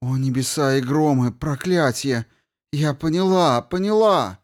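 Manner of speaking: rising to a frantic cry; excited realisation. Acted. Gelera's sudden realisation.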